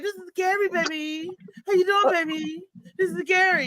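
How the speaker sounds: imitating a pimp. Man who won't say her name, lightly playing a pimp. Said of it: "He talked like a pimp".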